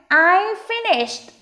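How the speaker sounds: very slow, high, emphatic word by word; slow model reading. Shown as a demonstration. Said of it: "Đọc chậm thôi, không cần đọc nhanh đâu". (đọc thật chậm, to và rõ)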